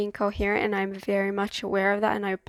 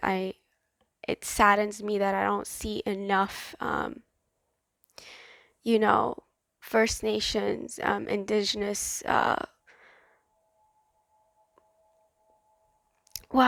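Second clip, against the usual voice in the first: slow, tearful speech, talking through crying. A speaker sharing a personal view, crying while talking. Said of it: "I don't know why I'm crying".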